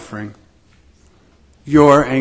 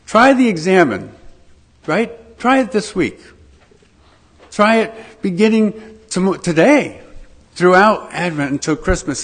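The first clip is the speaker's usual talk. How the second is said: infomercial voice; 3 semitones higher than usual. Pretend. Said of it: "Do I sound like an infomercial?".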